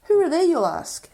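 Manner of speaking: mock newsreader. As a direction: announce it like news. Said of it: "going to this weird, like, newsreader boy".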